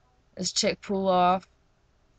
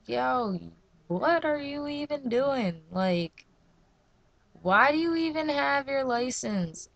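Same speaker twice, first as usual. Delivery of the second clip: retold exasperation; 4 semitones higher, 3 dB quieter than usual. Retold challenge to mom's driving.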